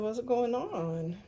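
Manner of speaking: slow, lightly slurred like after a stroke; a hint of mom's halting post-stroke speech. Mom asking from the kitchen, lightly imitated slow slurred words. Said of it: "she didn't talk quite right".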